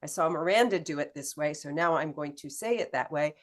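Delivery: loud, fast mock copycat; mimicking copycat trainee. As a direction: rattle it off like a copycat. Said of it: "trying to copy someone else's voice".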